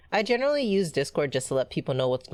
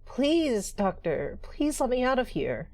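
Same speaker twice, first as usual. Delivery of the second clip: put-on begging girl; 10 semitones higher, slower than usual. Voices Rachel begging.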